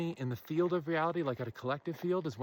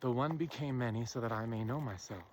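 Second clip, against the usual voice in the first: "The one became many" said softer and lower, like verse; softly recited maxim, lower and hushed; poetic recitation; 5 semitones lower, 6 dB quieter than usual. Shown as a demonstration. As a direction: recite it quietly as a line of poetry. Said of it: "said poetically".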